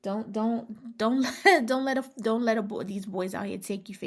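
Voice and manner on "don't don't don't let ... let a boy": giggling through a louder warning; laughing warning. Real, not acted. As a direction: laugh while you warn them.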